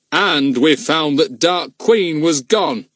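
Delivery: fierce. A narrator's reading. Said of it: "in a fierce voice".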